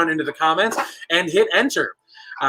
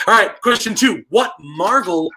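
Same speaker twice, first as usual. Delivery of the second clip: punchy, high-energy quiz host; lively announcer-style question launch. Real, not acted. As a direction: kick off the question with big energy. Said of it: "getting into the high energy".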